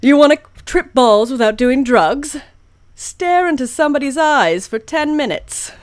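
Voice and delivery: punchy broadcast news read; news anchor voice. Acted. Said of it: "Found it".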